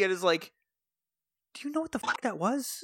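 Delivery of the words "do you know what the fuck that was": laughing disbelief. Retold or imitated. Kat confronts Doggy, retold.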